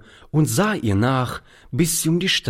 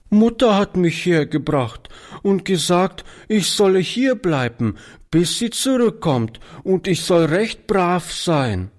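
put-on high child's voice, only a touch of a sob; a small girl holding back tears; sobbing little girl; 9 semitones higher than usual. A narrator's reading. Lost girl tells Oliver why she waits, lightly tearful child voice. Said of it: "erklärte die Kleine schluchzend".

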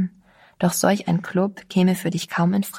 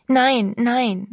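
crying out; 5 semitones higher than usual. A narrator's reading. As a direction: cry out no in alarm. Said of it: "schrie Sabine auf". (Sabine schreit erschrocken auf, lauter und höher)

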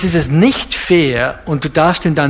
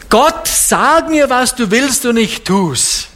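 high, slow, hammed-up plea to God; mock demanding prayer; 6 semitones higher than usual. Preacher mimicking lazy Christians praying, mock plea. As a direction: parody a lazy believer bossing God around.

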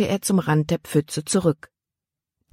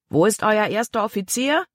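a big man's harsh question, higher and pressing; tall man, demanding; 5 semitones higher than usual. A narrator's reading. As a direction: push him for the first mate.

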